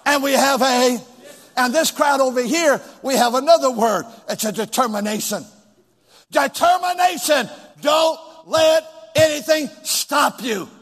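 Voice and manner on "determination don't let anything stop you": fiery exhortation. Real, not acted. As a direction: preach it with full fire. Preacher exhorting the church.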